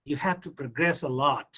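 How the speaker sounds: "progress" stressed on GRESS in the sentence; second-syllable stress. Shown as a demonstration. Teacher giving an example sentence, "progress" stressed on GRESS. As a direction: say "progress" as a verb, weight on GRESS. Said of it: "same word is used as verb".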